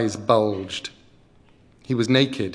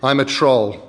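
troll voice; 5 dB louder than usual. Acted. Troll introduces himself.

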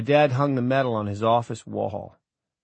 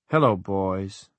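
lightly voiced ventriloquist doll, slow; doll's drawn-out greeting, lips barely moving; slow puppet greeting with a softened B; Noveen; slower than usual. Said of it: "his lips barely moved on the B".

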